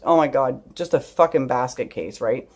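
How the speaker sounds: plain reading voice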